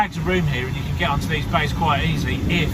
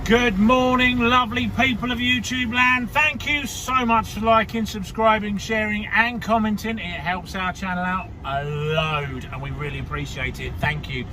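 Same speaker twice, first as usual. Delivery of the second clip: youtuber intro; 3 semitones higher than usual. Acted. Channel greeting to the viewers.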